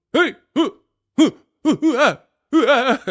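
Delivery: high loud laughter; cracking up hard; loud laughing. Real, not acted. Cracking up at own joke.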